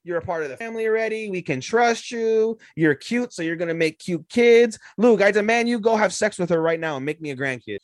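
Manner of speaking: high demanding mom voice; high bossy mother demanding grandkids; pushy mother. Retold or imitated. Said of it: "Her mom's like".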